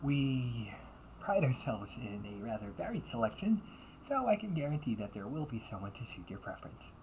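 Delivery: bright, sweet customer-service voice; the perfect polite maid serving a guest; polite cafe maid. Acted.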